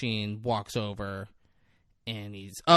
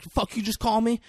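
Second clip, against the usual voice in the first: high, loud mock outrage; acted hot-headed challenge; imitated anger; 11 semitones higher, 5 dB louder than usual. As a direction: fire back like an insulted teen. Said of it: "Mikey gets angry".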